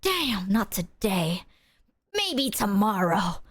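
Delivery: slow, low, disappointed ghost; a bored ghost giving up for the day; lightly voiced ghost. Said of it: "being like".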